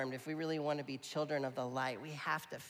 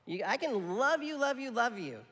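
high, loud, emphatic love you; 8 semitones higher, 5 dB louder than usual. Real, not acted. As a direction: press the love you home, louder each time. Preacher insists on loving people.

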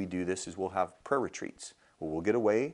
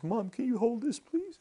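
high, squeaky mock-tearful voice; put-on weepy voice, pitched way up; imitated crying. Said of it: "And she starts crying".

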